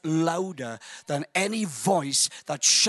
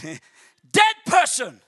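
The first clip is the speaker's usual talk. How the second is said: mock slow summons; 4 semitones higher, 5 dB louder, much slower than usual. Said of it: "If he had said".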